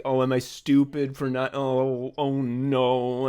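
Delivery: mildly deflated, acting out self-doubt; understated imitation of feeling beaten; mock defeated. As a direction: let it sink quietly into a small "oh no". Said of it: "you sort of just feel defeated".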